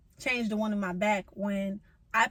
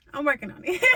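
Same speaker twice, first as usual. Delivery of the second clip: weary, self-mocking sigh; 4 semitones higher, faster than usual. Real, not acted. Admitting to viewers she isn't rich, sighing. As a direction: sigh it out, a bit rushed. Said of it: "y'all might think I got money".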